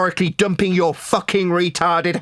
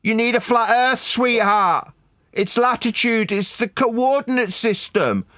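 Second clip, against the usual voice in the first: slightly raised, put-on nice voice; mock-polite; 3 semitones higher than usual. Shown as a demonstration. Repeating the point to critic of his anger, mock-polite. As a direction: make a show of saying it sweetly. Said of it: "I'll say it nice and polite".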